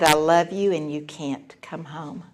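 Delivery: low, measured, ending very softly; peaceful firmness. Retold or imitated. Mother repeating herself to angry daughter, calm. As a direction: repeat the limit calmly, without arguing. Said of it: "I was as peaceful as I've ever been".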